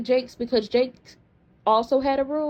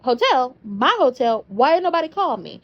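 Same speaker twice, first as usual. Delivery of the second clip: louder, indignant disbelief; shocked outrage; 5 dB louder than usual. Retold or imitated. Carly learns about her own hotel, loudly indignant. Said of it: "And Carly was like".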